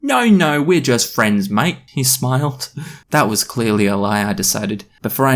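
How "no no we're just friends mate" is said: high-starting caricature British voice; put-on British accent. British boy denying a girlfriend, exaggerated British accent. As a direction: ham up a Russell Brand-style British accent. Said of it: "trying to do a Russell Brand accent".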